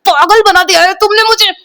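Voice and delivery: mock furious yell at mother; angry outburst. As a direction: lash out at mom, reenacted. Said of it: "मैं पूरा ऐसे mummy को बोलती थी".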